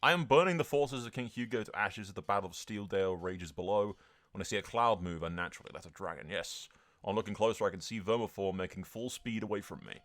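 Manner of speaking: measured first-person war chronicle; in-character battle narration; dramatic story narration. A narrator's reading. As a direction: recount the chase like a storyteller.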